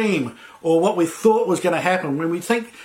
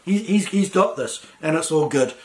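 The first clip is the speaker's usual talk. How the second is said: calm reassurance. Retold or imitated. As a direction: ease off and sound at peace. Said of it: "just calm down and say".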